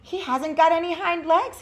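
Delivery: loud, high mocking call. A narrator's reading. Wild rabbit calling to the others, loud jeering shout. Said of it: "he called out".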